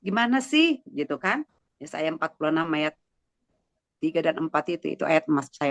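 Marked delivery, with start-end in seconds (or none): 0.0-0.8 raised-pitch, mildly exasperated plea; retold complaint to God. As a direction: replay a puzzled protest in prayer. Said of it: "Saya bilang". (menirukan keluhan kepada Tuhan)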